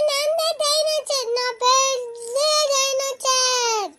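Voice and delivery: put-on high, drawn-out playful kid voice; child playing dinosaur. Dressed-up child showing off as a dinosaur, playful. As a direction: announce yourself slowly as a big dinosaur, high-pitched.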